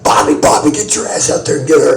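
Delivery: calls Bobby loudly across the room; calling out loud. Retold or imitated. Rick yelling for Bobby to go get her, loud. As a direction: yell it out to the ring. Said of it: "and he's like".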